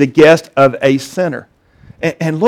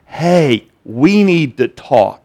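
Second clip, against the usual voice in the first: ominous spouse; 4 semitones lower, 3 dB quieter, much slower than usual. Acted. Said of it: "your wife comes to you and she says".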